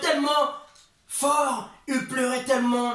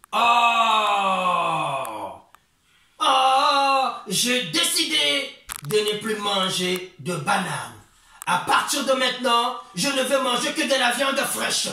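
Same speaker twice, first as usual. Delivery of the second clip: hammed-up wife; 3 dB louder, slower than usual. Wife monkey declares new diet.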